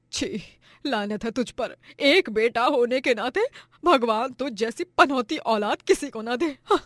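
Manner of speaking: lightly voiced mother cursing her son; a touch of bitter disgust. Mother cursing her thieving son, mildly disgusted.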